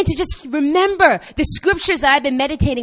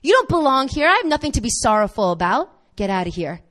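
hope rebuking sorrow; 3 semitones higher than usual. Retold or imitated. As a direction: chase sorrow away. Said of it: "hope begins to rise up and say".

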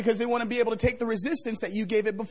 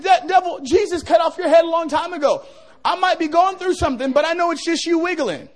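louder, taunting the devil; defiant shout at the devil; 3 semitones higher, 4 dB louder than usual. Retold or imitated. Pastor telling the devil off, louder and defiant. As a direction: shout him down, he's beaten.

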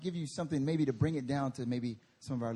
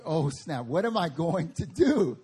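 laughing panic; 4 semitones higher, 3 dB louder than usual. Retold or imitated. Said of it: "I'm like".

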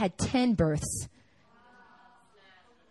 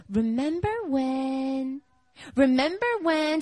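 imitating little girl; 4 semitones higher, slower than usual. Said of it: "she had this habit".

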